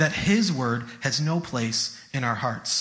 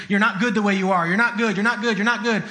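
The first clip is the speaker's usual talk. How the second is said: repetitive mildly raised scolding; mock harsh yelling; 3 semitones higher than usual. God seen as brutal telling you off, mock scolding. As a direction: hammer out a mock rebuke, a little higher. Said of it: "seems brutal and yells at you".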